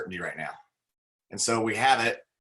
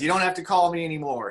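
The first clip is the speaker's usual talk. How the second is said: higher and louder, emphatic; triumphant declaration; 6 semitones higher, 5 dB louder than usual. Retold or imitated. Jim Rohn to the repo caller, loud and triumphant. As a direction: slap it down like you're finally free. Retold confronting debt collector.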